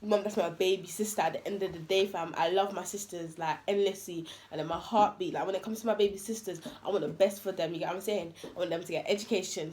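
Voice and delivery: soft, low heartfelt plea; quiet, emotional. Retold or imitated. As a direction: speak softly, as if choked up. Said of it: "I was crying".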